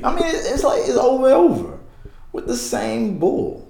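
laughing. Real, not acted. Laughing at repeated denials.

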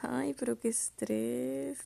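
slow exasperated sigh. Real, not acted. Sighs over failed search.

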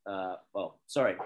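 groggy, low-energy hungover voice. Real, not acted. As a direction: mumble it, hungover and tired. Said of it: "I'm hungover".

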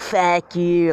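mild mock French-accented yell; lightly voiced French heckler; yelling French little man. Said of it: "he's just yelling at me".

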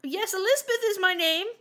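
high, loud posh British queen voice; Queen of England. Acted. Host playing the Queen answering a podcast call. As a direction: put on a grand royal British accent. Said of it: "dial into the queen now".

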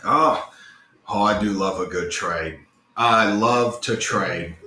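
a hint of an eager, drawn-out merchant voice; lightly voiced trader. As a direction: lightly play a trader who relishes a deal. Plays the trader greeting customers.

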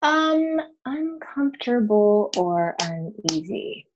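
slow, drawn-out musing repeat of the question; pondering. Real, not acted. Guest echoing a listener's question while searching memory, pondering. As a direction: turn the words over slowly while thinking.

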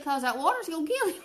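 daddy, laughing. Retold or imitated. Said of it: "He said".

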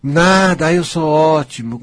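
slow, heartfelt "eu sou ótimo" affirmation. Shown as a demonstration. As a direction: say "eu sou ótimo" like you truly mean it, from the chest. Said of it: "Mas fala sentindo no peito".

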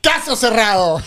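laughing. Real, not acted. Declaring the debate over.

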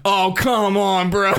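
slow, laughing come on; a laughing, slowed-down protest; disbelieving groan. Retold or imitated. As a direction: drag it out in disbelief. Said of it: "I was like".

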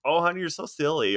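flamboyant character voice. Retold or imitated. Friend imitating Hank Azaria's character in the car, high and campy. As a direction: pitch it way up and camp it up. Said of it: "and then he'd be like".

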